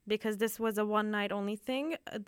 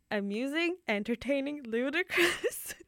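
laughing; 4 semitones higher, 3 dB louder than usual. Real, not acted. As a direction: laugh through the words. Repeats the synonym list, laughing.

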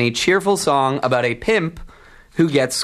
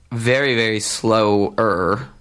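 slowing down; slower than usual. Shown as a demonstration. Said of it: "well, not that much slower".

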